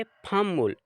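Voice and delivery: फम मुल with a held m; Korean pronunciation demo. Shown as a demonstration. Teacher shows students how फप मुल is said: फम मुल. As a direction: say फम मुल, the p turned into m. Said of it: "तो इसको पढ़ेंगे".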